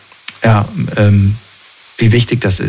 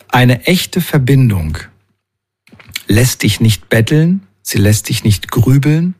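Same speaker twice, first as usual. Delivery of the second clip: slow, gentle reading of a quote, each line set apart; slow inspirational reading. Acted. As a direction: read it like a short poem, slowly and with feeling. Reads out an Instagram quote.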